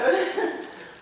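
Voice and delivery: nervous laugh. Real, not acted. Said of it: "I'm a little nervous".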